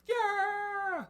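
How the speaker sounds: loud, high rallying yell; shouted cheer. Acted. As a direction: cheer like a fired-up bandit. Bandits cheering for leader.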